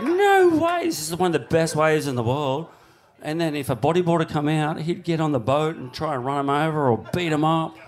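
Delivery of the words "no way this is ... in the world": stunned and thrilled all at once; amazed disbelief. Retold or imitated. Surfer recalling the first wave, excited disbelief. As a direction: squeak the first words much higher, then settle. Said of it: "And it was just like".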